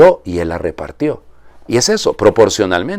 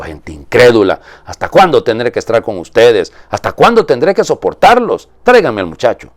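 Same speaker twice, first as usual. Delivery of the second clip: exasperated rebuke; 3 semitones higher, 6 dB louder than usual. Acted. Jesus rebukes unbelieving crowd.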